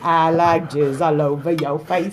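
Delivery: slow line broken by laughter; laughing reluctantly. Real, not acted. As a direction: giggle through the forced line. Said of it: "Still haven't said it".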